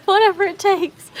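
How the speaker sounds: high, loud comic vow; over-the-top rallying cry; mock determination. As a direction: declare it with hammed-up drama. Continues the mock dramatic declaration.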